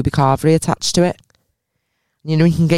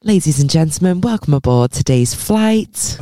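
flight attendant announcement. Shown as a demonstration. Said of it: "I used to love doing the announcements".

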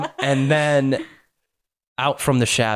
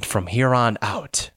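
drawn-out, high-to-normal scolding no; firm refusal; 8 semitones higher, much slower than usual. Acted. Answering the pleading voice, slow firm refusal. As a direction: refuse slowly, starting high and settling down. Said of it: "How does it feel to be told to".

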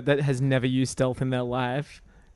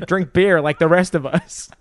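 Seth MacFarlane Venom voice; 3 semitones higher than usual. Retold or imitated. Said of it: "Seth MacFarlane was the voice of Venom".

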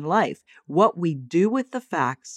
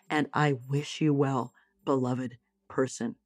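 softer, gentle and steady, ending very soft; calm, kind statement; 4 dB quieter than usual. Acted. Telling a departing partner you wish them well, soft and tender. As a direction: speak your truth tenderly but firmly. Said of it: "and say".

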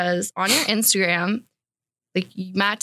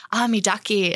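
East Coast taxi driver. Retold or imitated. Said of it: "the taxi driver was like".

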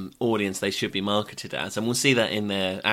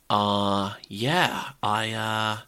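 put-on New York accent; much slower than usual. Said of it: "really dry sort of New York Jewish accent".

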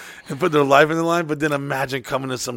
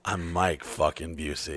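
cocky slow boast; 10 semitones lower, 12 dB quieter than usual. Retold or imitated. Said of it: "boasting retort to fan".

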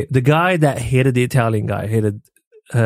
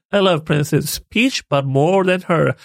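mock Mario, higher; 4 semitones higher than usual. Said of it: "continuing the Chris Pratt bit".

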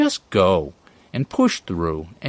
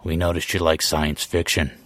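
whispering drug dealer; 4 semitones lower than usual. Pretend. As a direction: murmur it low like a street-corner pusher. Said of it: "whispering sweet offers from the shadows".

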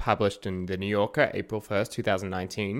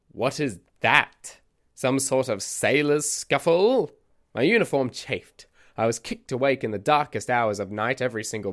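eccentric storyteller character; 2 semitones higher than usual. Acted. Podcast host voices eccentric narrator.

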